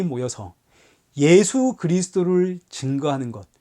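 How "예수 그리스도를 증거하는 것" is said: ordinary talk, nothing marked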